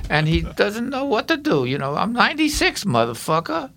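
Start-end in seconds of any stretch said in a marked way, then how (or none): 1.7-3.7 foul-mouthed Brooklyn guy; salty Brooklyn old-timer, raised; Brooklyn accent. Shown as a demonstration. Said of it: "Bill, the foul-mouthed Brooklyn guy".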